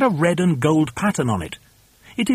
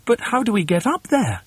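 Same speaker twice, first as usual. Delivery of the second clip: high-voiced doubtful question; high, bewildered little voice; puzzled followers; 6 semitones higher than usual. A narrator's reading. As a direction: ask it high and helpless. Helpers puzzled by the order.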